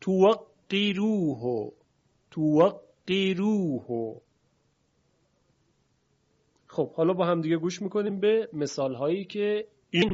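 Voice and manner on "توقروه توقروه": «توقروه» slow, with a light thinned ر in "qiru"; slow teacher's model of «توقروه» with thin ر; Warsh tarqiq. Shown as a demonstration.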